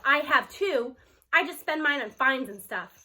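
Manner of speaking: loud and hurt, defending himself; indignant protest. Acted. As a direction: Aldo jumps up and shouts back. Aldo leaps up protesting.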